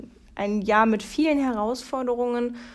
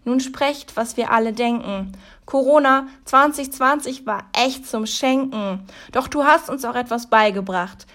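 dramatic rhyming recital, louder; poem recital; 4 dB louder than usual. Acted. Reciting the Corona Christmas poem to viewers: dramatic declaiming.

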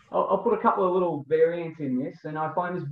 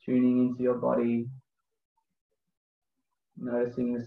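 slow, calm breathwork guide voice; guided meditation. Acted. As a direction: lead the breathing gently, unhurried.

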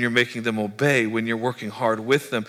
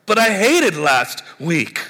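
slow, louder petulant complaint; whine; 4 semitones higher, 6 dB louder, slower than usual. Acted. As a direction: protest like a sulking kid. Listener whines back at God.

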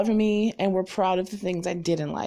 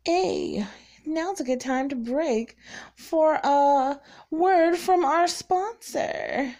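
slow, higher, hammed-up radio announcer; mock announcer; 6 semitones higher, slower than usual. Podcaster announcing a fake sponsor break, mock announcer. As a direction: tease the ad break like a show host.

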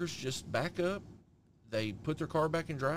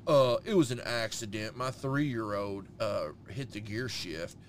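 mock excuse; 5 semitones lower, slower than usual. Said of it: "he's like".

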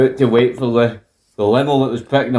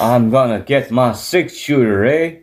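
mock Canadian accent; slower than usual. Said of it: "fails miserably to hide his Canadian accent".

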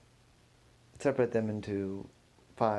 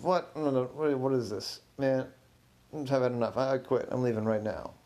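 mildly flustered, indignant refusal; agitated protest; 3 semitones higher than usual. Acted. Tech guy told to open his mouth, protesting. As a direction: push back as if cornered.

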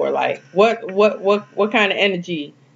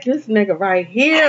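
each word stretched slowly; slow knowing drawl; slow, drawn-out muse; much slower than usual. Retold or imitated. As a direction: savor it slowly, half amused. Drawn-out acted thought.

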